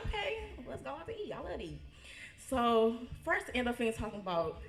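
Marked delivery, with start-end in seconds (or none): 0.1-1.8 put-on eager child voice. Younger self quoted, eager.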